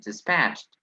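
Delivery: dispatched with stress on "patched"; correct pronunciation demo. Shown as a demonstration. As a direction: model dispatched clearly as dis-PATCHED. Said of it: "that's the correct pronunciation".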